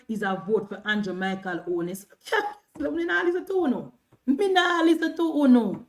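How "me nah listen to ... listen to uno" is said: higher-pitched, emphatic refusal; defiant refusal. Real, not acted. Streamer shutting out critics, defiant. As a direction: dig in and refuse loudly.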